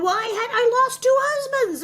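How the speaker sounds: high, loud mocking wail of a widow. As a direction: sing it out high, mocking her self-pity. Mocking character's lament.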